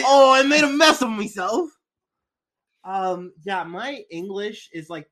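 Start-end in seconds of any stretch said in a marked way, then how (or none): 0.1-1.7 high, loud goofy voice; silly killer voice. Pretend. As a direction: ham it up as the killer. Voicing the Ripper joking.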